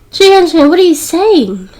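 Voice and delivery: shocked outburst. A narrator's reading. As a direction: voice jumping up in disbelief. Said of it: "Sashimi was shocked".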